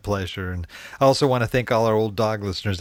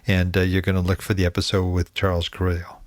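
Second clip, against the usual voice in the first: ordinary delivery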